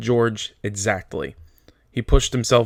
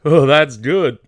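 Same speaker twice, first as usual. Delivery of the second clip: a hint of a childlike, delighted Lenny; pleased and simple, louder; lightly voiced simple giant; 5 semitones higher, 8 dB louder, slower than usual. Lenny's voice after drinking.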